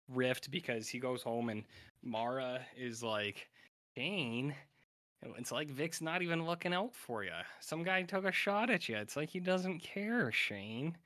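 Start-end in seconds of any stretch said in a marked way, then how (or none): 4.0-11.0 higher-pitched imitation of a concerned partner; mock nagging complaint. Mara telling Shane that Vic doesn't care, mock nagging. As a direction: retell it as a raised-pitch, mock indignant complaint.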